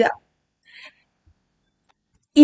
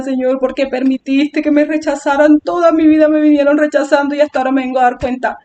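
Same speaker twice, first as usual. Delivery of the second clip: mock self-pitying lament; playing the victim. Complaining to God of being rejected, playing the victim. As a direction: run the complaint on like a put-on whine. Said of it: "haciéndome yo ya la víctima".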